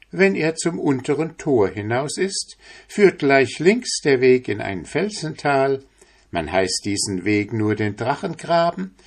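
a touch of an eager housewife; master's wife. Acted.

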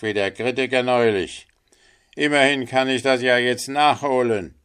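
loud, high-pitched angry rant; highly indignant. A narrator's reading. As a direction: tell the linnet off furiously. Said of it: "sagte der Wasserratz höchst erbost". (höchst erboste Wasserratte, laut und hoch)

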